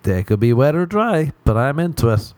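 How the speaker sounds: hammed-up keenness, starting high and settling; playfully over-keen; mock eagerness. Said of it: "you'd be like".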